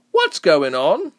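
loud, high, drawn-out call; shout over crowd. A narrator's reading. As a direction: shout above the rest. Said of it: "one voice shouted above the rest".

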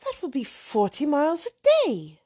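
lightly voiced hesitant girl; timid young lady. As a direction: question him gently. Catherine reckons.

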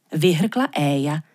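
plain reading voice

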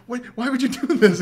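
high, loud retold outburst; hammed-up outraged disbelief, pitch way up; mock freak-out. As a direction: imitate someone freaking out at a person. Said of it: "freaking out on her".

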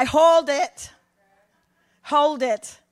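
emphatic. Real, not acted. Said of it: "emphatic interruption".

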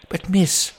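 very high put-on voice, slowing at the end; high-pitched, disbelieving copper; incredulous policeman. Policeman explains asylum is closed.

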